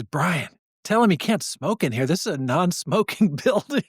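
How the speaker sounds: ordinary delivery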